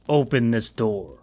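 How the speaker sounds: imposing voice. Acted. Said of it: "large, imposing voice".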